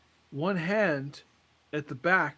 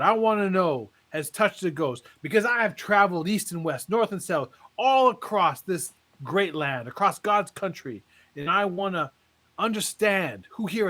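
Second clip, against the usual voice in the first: lightly voiced preacher working the crowd. Joke teller voicing a tent preacher.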